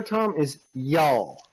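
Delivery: slow drawn-out Southern y'all. Shown as a demonstration. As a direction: drawl the y'all slowly. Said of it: "the word you're looking for".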